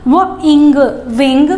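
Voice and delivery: put-on teacher blending sounds for children. Shown as a demonstration. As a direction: blend वो plus इंग into विंग. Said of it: "तो क्या होगा?".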